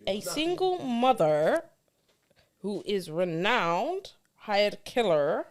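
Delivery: slow, careful attempt at a Bajan accent; halting put-on Bajan accent. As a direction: read it slowly in a shaky-confidence Bajan accent. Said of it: "in your best Bayesian accent".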